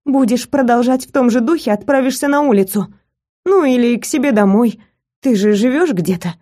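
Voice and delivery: 1 still cross. Acted. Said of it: "ещё не перестав сердиться".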